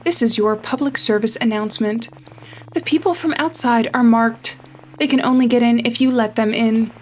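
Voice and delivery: measured public warning, each word weighed; announcement read. Acted. Reading the radio announcement.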